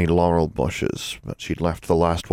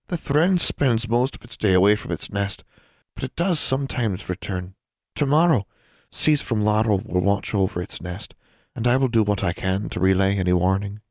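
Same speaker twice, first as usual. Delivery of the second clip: tiny elf; 4 semitones higher than usual. Acted. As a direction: speak like a small wrinkled creature. Elf voice held.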